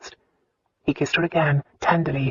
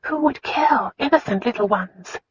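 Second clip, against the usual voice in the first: higher, horrified whisper; 6 semitones higher than usual. A narrator's reading. Wife whispering, appalled, to her husband. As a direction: ask it in a hushed, shocked whisper. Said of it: "Christina whispered".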